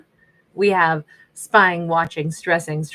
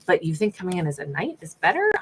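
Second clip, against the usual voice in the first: sassy eye-roll; faster than usual. Real, not acted. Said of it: "I'm all sassy on this one".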